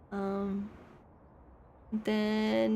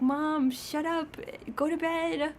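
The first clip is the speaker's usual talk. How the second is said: cat's voice; 5 semitones higher than usual. Pretend. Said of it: "He's like".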